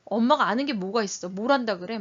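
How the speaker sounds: acted child challenging mom; confrontational retort. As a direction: throw it accusingly at mom. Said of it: "막 달겨들듯이 얘기한다고".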